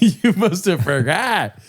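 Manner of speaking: slow, laughing repeat of the line. Real, not acted. Cohost laughing back at his friend's excuse, slow and amused. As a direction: laugh through the words, drawn out.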